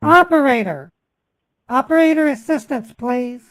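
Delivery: loud to phone menu. Real, not acted. Speaking to automated phone menu.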